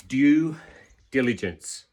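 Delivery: slow, careful due diligence; said slowly. Shown as a demonstration. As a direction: spell out "due diligence" syllable by syllable, unhurried. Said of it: "I have to say that slowly".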